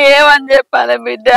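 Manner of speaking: tearful, helpless wail; sobbing lament; crying. Acted. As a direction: answer through tears. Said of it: "ఎందుకు ఎడుతున్నావ్".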